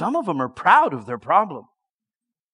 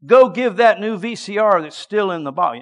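voice of the Spirit; 4 semitones higher, 7 dB louder than usual. Retold or imitated. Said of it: "Spirit of God ... said".

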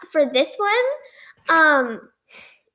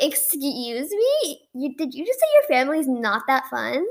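retold parental indignation. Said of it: "they were like".

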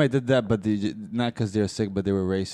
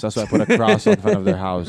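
mock racist neighbor; 7 semitones higher, 4 dB louder than usual. Racist neighbor voiced in a bit.

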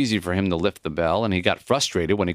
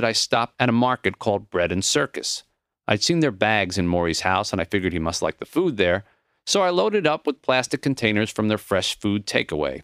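usual speaking voice

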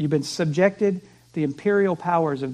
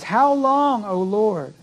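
impassioned cry; slower than usual. Retold or imitated. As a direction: cry out to God in anguish. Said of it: "you cry out".

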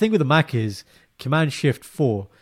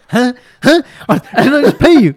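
high, loud baffled voice through a laugh; mock confused client; 11 semitones higher, 12 dB louder than usual. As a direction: play the bewildered payer. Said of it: "He's like".

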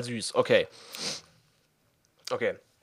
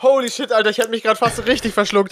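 coughing after choking; 7 semitones higher than usual. Real, not acted. After nearly choking on whisky.

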